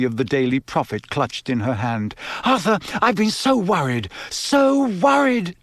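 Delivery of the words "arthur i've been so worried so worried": high, overwrought wife, drawing out the repeat; frantic worry. A narrator's reading. Wife running to Arthur, high worried wail.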